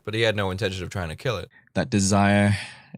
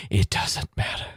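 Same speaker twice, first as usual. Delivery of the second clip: breathy whispered repeat; whispering. Shown as a demonstration. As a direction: whisper it under your breath.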